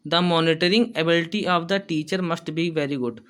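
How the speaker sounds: slow, careful dictation pace, said twice; teacher dictating notes. Shown as a demonstration. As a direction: read it slowly so students can write. Teacher dictating an English point.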